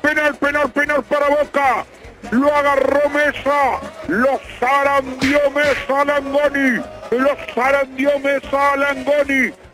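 impassioned football commentary; live play-by-play. Real, not acted. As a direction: stretch the key calls like a football commentator.

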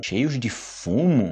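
drawn-out, questioning repeat; slow puzzled echo. Shown as a demonstration. Teacher echoing a strange book phrase, slow and puzzled. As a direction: savour the odd phrase, puzzled. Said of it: "Parece assim que, tipo".

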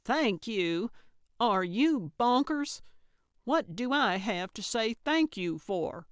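indignant, rising disbelief with strong emphasis; incredulous outrage. A narrator's reading. Gertrude throwing Calvin's words back, incredulous. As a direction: echo it back as if it were absurd.

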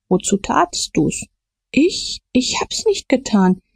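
high, panicked denial; frightened denial. A narrator's reading. Frightened Potter denies murder. (verängstigt, hoch)

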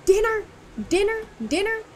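high, loud insistent dinner; emphatic high dinner. Real, not acted. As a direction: stress dinner in protest. Emphatic complaint.

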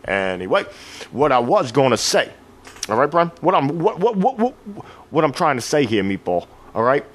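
a lightly voiced Brooklyn tough guy; meathead voice. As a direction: lay it down like a street-smart meathead. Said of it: "in my best meathead voice".

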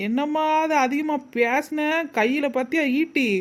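lightly put-on threatening spirit; pretend ghost. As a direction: threaten as a fake possessed woman. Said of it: "என்னைய மாதிரி பேயாத அலையணும்".

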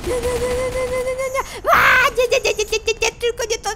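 high, rapid-fire frantic refusals; panicked pleading. Real, not acted. Begging as monsters close in.

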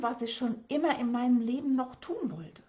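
das Wort noch betont und gedehnt; stress on noch. Shown as a demonstration. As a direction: lean into noch. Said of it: "Mit Betonung auf noch". (Betonung auf „noch“, das Wort noch deutlich hervorheben)

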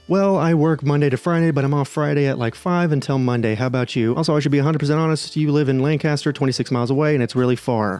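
sleazy creep voice, lightly done; mock sleazy guy. Reading a creep's crude text aloud, lightly mocking sleazy voice. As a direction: read his text like a grinning creep.

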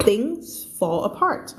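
slow repeat stressing apart; slow read again. Shown as a demonstration. Teacher repeating the phrase for students. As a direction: things fall apart with weight on apart.

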